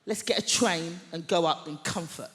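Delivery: mock cheerful suggestion to her friend; bright idea. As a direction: pitch the plan with a bit of flair. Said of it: "I go".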